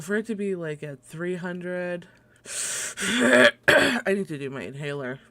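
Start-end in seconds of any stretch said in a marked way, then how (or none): 2.4-2.9 cough. Real, not acted. Asthma, needs inhaler.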